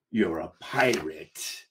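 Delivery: low, soft, slow counter; measured comeback. Acted. First mate answering the captain's outburst, low, slow and pointed. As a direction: turn it back on them slowly and quietly.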